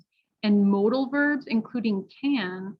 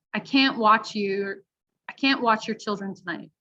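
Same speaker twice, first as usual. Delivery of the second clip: CAN'T held clear with a full "a" vowel; stress on CAN'T. Shown as a demonstration. Teacher reading a listening test item, stressed CAN'T. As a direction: stress can't before watch. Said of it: "or am I stressing it and saying can't".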